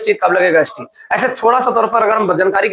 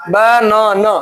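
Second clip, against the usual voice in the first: बनाना slowly, three separated syllables; broken into syllables; much slower than usual. Shown as a demonstration. Teacher asking class to count syllables, बनाना broken apart. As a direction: draw out ब, ना and ना separately. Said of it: "कितना बार हम तोड़ के बोलते".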